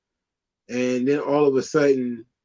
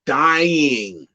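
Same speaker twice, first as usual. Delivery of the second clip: bored groan; slower than usual. Retold or imitated. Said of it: "people were like".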